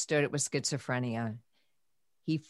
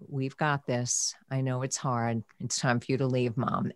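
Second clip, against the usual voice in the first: gentle nurse; 3 semitones lower, 4 dB quieter than usual. Retold or imitated. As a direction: ease the mother out kindly. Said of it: "And the nurse, God bless her, said to me".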